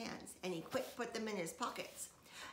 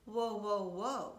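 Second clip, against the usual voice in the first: whoa; 6 dB louder, slower than usual. A narrator's reading. Sheldon stops May.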